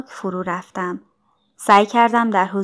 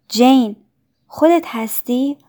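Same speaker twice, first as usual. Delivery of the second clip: a kind, higher-pitched question; kindly; 4 semitones higher than usual. A narrator's reading. Helen recognises Jane at her bedside, kindly. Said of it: "با همان لحن مهربان همیشگی".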